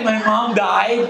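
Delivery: slow, mock mournful; hammed-up sad line; fake sad drama. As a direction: play the grief up to dodge talk. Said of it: "Nagdrama ako eh".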